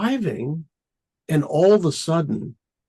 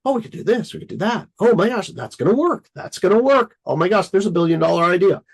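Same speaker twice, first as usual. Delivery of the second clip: higher, quickening idea frenzy; excited rush; 3 semitones higher, faster than usual. Retold or imitated. Scattered creator chasing billion-dollar ideas, higher and rushing. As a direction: tumble from idea to idea. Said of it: "because you're like".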